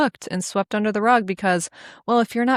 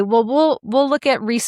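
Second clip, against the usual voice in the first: indignant retelling; 6 semitones higher, 5 dB louder than usual. Real, not acted. Mocking doctors' dismissal.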